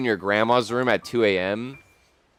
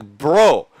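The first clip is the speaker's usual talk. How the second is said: high, slow baffled "Grandma, what are you doing?"; stretched-out disbelief at grandma; asking grandma; 6 semitones higher, 4 dB louder, slower than usual. Retold or imitated. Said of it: "I'm like".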